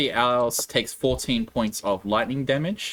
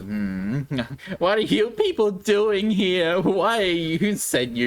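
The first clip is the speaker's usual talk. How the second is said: slow, suspicious demand, pitched up; suspicious villain; 5 semitones higher, slower than usual. Acted. Villain interrogating the adventurers, slow and wary. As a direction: question the intruders slowly and warily. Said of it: "he goes".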